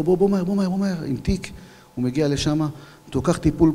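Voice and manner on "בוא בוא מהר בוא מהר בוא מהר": raised, higher urgent call; retold shout. Officer calling a rescue medic over, urgent higher shout. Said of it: "צועק לו".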